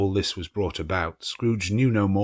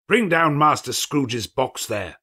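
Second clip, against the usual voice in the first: terrible voice; 5 semitones higher, 4 dB louder, slower than usual. A narrator's reading. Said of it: "a terrible voice ... cried".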